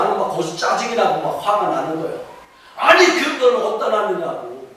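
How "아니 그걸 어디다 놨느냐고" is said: retold scolding. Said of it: "막 소리를 질러가며".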